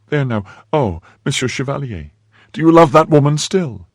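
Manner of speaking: put-on high, upset young woman; jealous maid. A narrator's reading. Maid challenging the chevalier about another woman, high and jealous.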